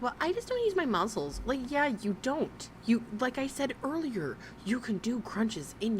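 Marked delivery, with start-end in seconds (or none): 0.0-1.4 mocking imitation. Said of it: "Her being like".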